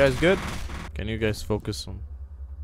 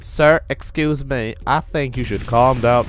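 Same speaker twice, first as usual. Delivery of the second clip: mock scolding; 6 dB louder than usual. Scolding an enemy in game.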